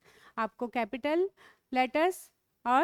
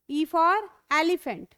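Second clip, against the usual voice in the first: drawn out slowly, a touch louder; slow and clear; 2 semitones higher, 4 dB louder, much slower than usual. Shown as a demonstration. Teacher modelling "elephant" slowly for pupils. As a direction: say it slowly for the class to repeat. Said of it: "आप इसको भी ए बोलते हो".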